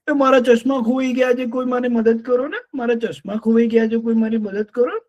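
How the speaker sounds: high pleading bird voice; fussy lapwing. Acted. Lapwing lost her glasses, pleading for help. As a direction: beg everyone for help, high.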